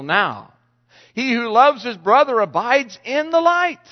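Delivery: measured, emphatic Bible reading; preacher reading scripture to the congregation. Acted. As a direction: read the verses slowly, leaning on key words. Reads scripture aloud.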